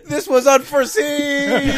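high, drawn-out dramatic yell. Acted. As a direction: cry it out loud as the tentacle drags you under. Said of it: "he yells out".

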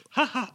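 high, forced ha ha; spelled-out, unconvincing laughter; badly faked laugh. Shown as a demonstration. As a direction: fake a laugh that won't come. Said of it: "I can't laugh".

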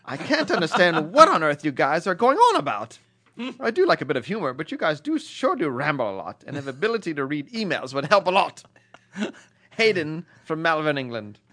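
a light put-on British accent reading the email. Host reading an English listener's email in a lightly put-on British accent. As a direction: read the letter in a mock English voice. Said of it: "you have not improved your British accent".

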